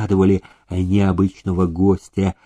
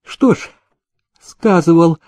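playful; 5 semitones higher than usual. A narrator's reading. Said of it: "глаза её озорно засмеялись".

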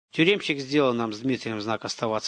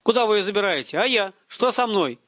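frightened yet glad; 7 semitones higher than usual. A narrator's reading. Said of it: "Несмотря на страх, в голосе слышна и радость".

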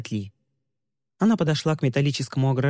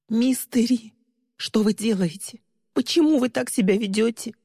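confused fear; 7 semitones higher than usual. Acted. Lee confused and frightened.

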